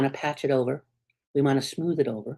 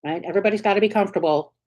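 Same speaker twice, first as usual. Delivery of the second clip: anxious brain; 3 semitones higher, faster than usual. Retold or imitated. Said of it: "the brain is like".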